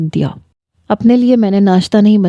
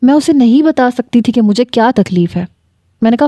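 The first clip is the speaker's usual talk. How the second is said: plain reading voice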